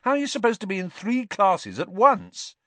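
high, loud, amused disbelief; can't believe what he reads; incredulous. A narrator's reading. Ron to Hermione about her timetable, amused disbelief.

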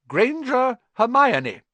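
slow, high, loud name call; McGonagall calling. A narrator's reading. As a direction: draw the name out for the hall. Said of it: "McGonagall calls names".

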